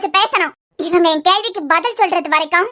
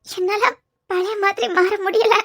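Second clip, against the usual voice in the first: scared, fragile; 3 dB quieter than usual. Acted. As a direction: hold back tears as you admit the fear. Fearful girl confesses to lover. (அவனிடம் பயத்தை ஒப்புக்கொண்டு மெல்லிய பயந்த குரலில்)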